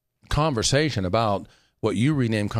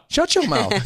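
playful exclamation; 5 dB louder than usual. Real, not acted. Playful outburst about a friend.

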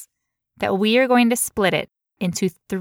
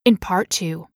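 crisp news-anchor delivery; reporter voice. Shown as a demonstration. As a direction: announce it like a TV reporter. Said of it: "I'm gonna get my reporter voice on".

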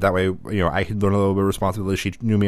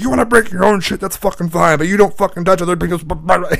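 high, raised imitation of an angry dad; mock scolding tirade from dad; reading the riot act; 9 semitones higher, 4 dB louder than usual. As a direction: rant like a fed-up parent, voice pitched up. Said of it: "He's reading me the whole riot act".

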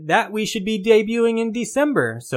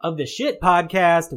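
lilting show-opener announcement voice; podcast host intro. Acted. Host welcoming listeners to the weekly game podcast, announcer intro. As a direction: open the show with swooping, announced lines.

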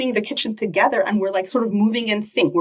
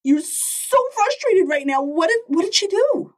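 matching, then calming; 12 semitones higher than usual. Retold or imitated. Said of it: "match your tone of voice and then tone it down".

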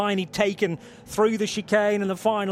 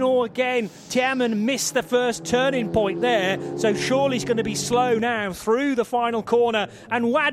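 excited; 3 semitones higher than usual. Real, not acted. Car misses chicane, commentator reacts.

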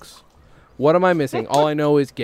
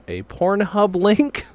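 slow reveal; 6 semitones higher, much slower than usual. Real, not acted. Embarrassed reveal.

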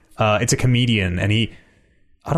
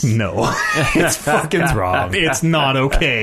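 mock outrage; slower than usual. Real, not acted. Mock outrage at Tolkien changes.

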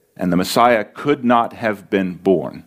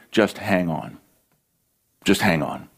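gentle encouragement; 5 semitones lower, 5 dB quieter than usual. Real, not acted. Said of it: "Can I encourage you?".

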